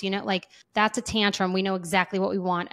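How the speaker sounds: ordinary talk, nothing marked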